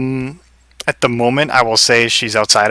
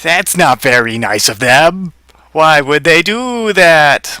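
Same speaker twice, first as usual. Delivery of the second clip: slow, drawn-out bunny complaint, rising higher; wounded bunny; 5 semitones higher, slower than usual. Acted. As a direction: whine slowly like a hurt giant bunny. GM answers as the bunny.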